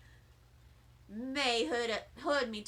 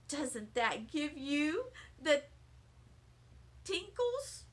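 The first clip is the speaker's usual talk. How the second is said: gushing; 4 dB quieter, slower than usual. Acted. Lucille gushing to classmates.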